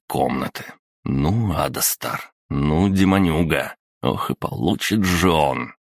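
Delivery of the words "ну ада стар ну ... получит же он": fuming. Acted. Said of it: "гневно пыхтя".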